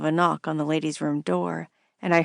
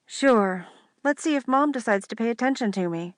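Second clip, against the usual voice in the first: higher teasing sister voice; 6 semitones higher than usual. Acted. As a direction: needle her like a bossy sister.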